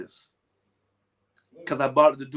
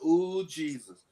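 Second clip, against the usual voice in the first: amazed ooh; slower than usual. Retold or imitated. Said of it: "you be like".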